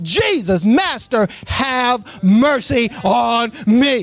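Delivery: slow, stretched-out plea; lightly acted cry for mercy, drawn out. Preacher voicing what the lepers cried instead, a slow plea. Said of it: "Instead, what did they cry out?".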